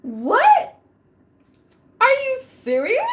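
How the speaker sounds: high loud disbelief; shocked. Retold or imitated. Hearing she's pregnant, high loud disbelief. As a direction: sound floored. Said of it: "This is like".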